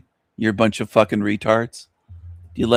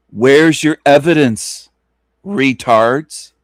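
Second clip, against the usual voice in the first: louder, slower and insistent; demanding; 2 semitones higher, 4 dB louder, much slower than usual. Real, not acted. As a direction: lean hard into the demand. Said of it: "repeats the question louder".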